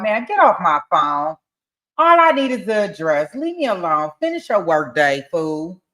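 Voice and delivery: loud, scornful reading of the messages; loud mocking text reading; reading his texts. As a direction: read his dismissive texts at full volume. Creator reads man's text message.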